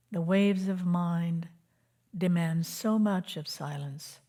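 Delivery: measured spiritual poem reading with long pauses; poetic recitation. Acted. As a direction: recite it line by line, letting each phrase settle. Recites a poem-like teaching on silence.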